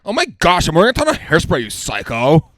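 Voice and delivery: loud, high Lola voice; Lola Scumpy voice. Acted. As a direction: squeal it like Lola. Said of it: "I can do a lot of Nick Kroll's voices".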